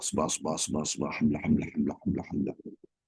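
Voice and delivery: rattled off too fast and mumbled; hasty mumbled chanting, syllables swallowed; rushed zikir. Shown as a demonstration. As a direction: gabble the words with no thought behind them. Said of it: "ini dilarang membaca seperti ini, terlalu cepat".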